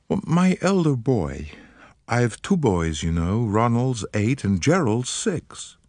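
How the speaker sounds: put-on light American accent, eager and polite; an American woman, gently worried; faint American accent. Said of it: "She spoke with a faint transatlantic accent".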